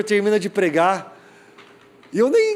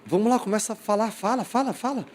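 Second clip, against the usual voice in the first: quick, higher, repeated prodding; insistent urging; 4 semitones higher, 4 dB quieter than usual. Retold or imitated. Youth leader pressing a boy to speak, insistent urging. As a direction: push the words out quickly, pressing for a response.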